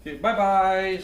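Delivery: high cutesy bye-bye; baby talk. Pretend. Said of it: "Tell the peoples bye-byes".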